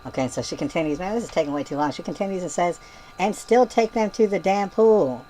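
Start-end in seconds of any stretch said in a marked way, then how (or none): 3.2-5.2 slow mock yell. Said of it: "She yells it".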